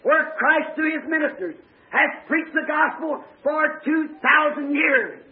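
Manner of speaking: fervent preaching. Real, not acted. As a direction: preach it to a responsive congregation.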